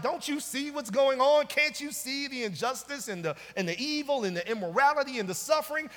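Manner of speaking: insistent, piling-up protest; urgent preacher's retelling of a complaint; voiced challenging questions. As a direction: demand an answer as the exasperated prophet. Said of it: "bringing the questions like".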